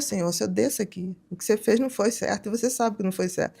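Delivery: soft, controlled firmness; calm quiet reprimand; quiet, stressed. Retold or imitated. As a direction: keep it hushed and level, like anger at its limit. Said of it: "eu falo baixinho".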